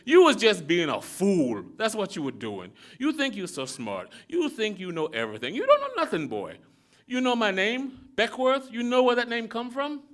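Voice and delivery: little father berates Elihu about being Indian, loud and scornful; scolding old man. Acted. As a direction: tear into the boy with scorn.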